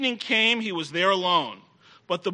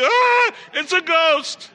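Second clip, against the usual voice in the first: slow, high, hammed-up ghost scream; mock terror; 9 semitones higher, 4 dB louder, slower than usual. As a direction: play the scared disciple, drawn out. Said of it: "That would have been me".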